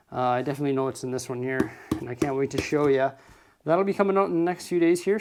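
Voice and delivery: out of breath from the stairs; winded, breathing hard between words; gasping for air. Real, not acted. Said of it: "Sorry, I'm out of breath".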